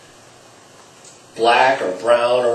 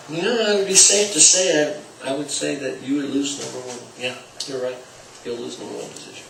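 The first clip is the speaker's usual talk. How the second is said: calm. Retold or imitated. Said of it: "just calmly go up and I go".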